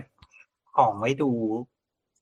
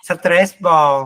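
slow, puzzled first reading of the English words; 4 semitones higher, 6 dB louder than usual. Shown as a demonstration. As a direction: sound out stress ball slowly, unsure of the words. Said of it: "คืออะไรวะ".

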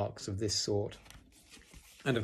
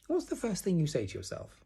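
high little piglet voice; 9 semitones higher than usual. A narrator's reading. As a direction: ask a friend in a small high voice. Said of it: "said Piglet at last".

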